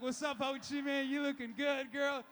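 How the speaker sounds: hammed-up come-on; mock flirting.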